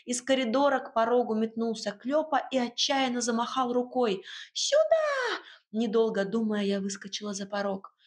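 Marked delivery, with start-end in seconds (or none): 4.5-5.4 much higher, urgent little voice; a tiny house spirit calls her over; house spirit calling. Acted.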